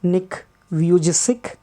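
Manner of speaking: Vujicic said as "VYOO-jih-sik"; alternative pronunciation. Shown as a demonstration. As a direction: say Vujicic with a j sound and a final k. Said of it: "pronounce this as Nick Vujicic".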